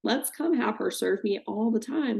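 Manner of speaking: a mocking fake-sweet wife; sneering at the idea of Brandy welcoming Scheana; mock Brandy gushing. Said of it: "This woman's not gonna be like".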